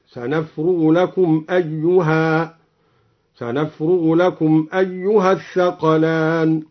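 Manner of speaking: أيها held with a long final alif, slow; stop with alif. Shown as a demonstration. Reciter demonstrating the pause on أيها, slow. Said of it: "بالألف".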